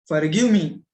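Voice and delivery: forceful, pleading cry of forgive; loud plea for forgiveness. Retold or imitated. Grocer begs mother's forgiveness.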